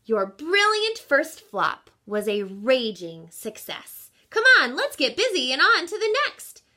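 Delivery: rally her to get busy; lightly voiced eager aunt. Great aunt urging Rosie on, brisk and eager.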